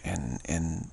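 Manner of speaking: trailing off as the throat tickles; real loss of voice creeping in; voice giving out. Real, not acted. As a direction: let the voice sink, barely able to speak. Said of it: "like, I can't even speak".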